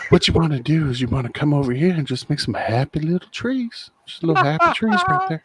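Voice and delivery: lightly voiced easygoing TV painting host; a hint of a gentle painting instructor, played for laughs; Bob Ross. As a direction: lightly impersonate a soothing painting-show host. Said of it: "welcome obese Bob Ross to the podcast".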